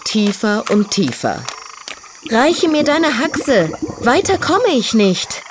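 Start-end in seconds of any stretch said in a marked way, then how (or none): 2.3-5.4 high, slow strained gasping plea; panting. Acted. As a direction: pant out the words while straining. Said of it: "keuchte Ferdinand".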